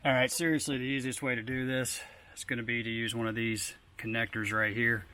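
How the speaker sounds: winded, catching breath; talking while short of breath. Real, not acted. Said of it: "I'm a little bit out of breath".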